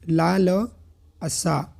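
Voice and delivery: ला ल असा, broken into slow syllables; spelled out syllable by syllable. Shown as a demonstration. Teacher spelling the word to students, syllable by syllable. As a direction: sound out ला, ल, असा with pauses between. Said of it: "इसको लिखते हैं".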